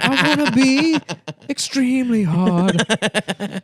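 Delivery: mocking loser voice. Mocking a thirty-five year old Pokemon fan, whiny. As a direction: whine it like a sad grown gamer.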